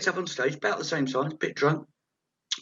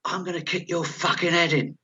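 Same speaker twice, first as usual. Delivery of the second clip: higher-pitched mock threat, no real volume; retold heckler shout; 5 semitones higher than usual. Heckler threatening the comedian on stage, mild mock shout. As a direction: imitate a heckler calling from the back. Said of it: "Someone at the back shouts".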